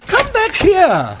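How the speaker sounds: stern summons after a departing man; angry call. Acted. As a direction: order him back across the room. Ordering inspector to return.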